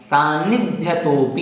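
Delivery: सान्निध्यतोपि unhurried, with the न held double; correct double n. Shown as a demonstration. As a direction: dwell on both n sounds in सान्निध्यतोपि. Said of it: "इस प्रकार से बोलना है". (सान्निध्यतोपि में दो बार न स्पष्ट बोलें)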